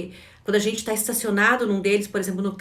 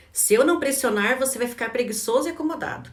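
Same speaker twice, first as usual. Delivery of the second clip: inner critic; 4 semitones higher, faster than usual. Retold or imitated. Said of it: "quais as mentiras que o crítico conta".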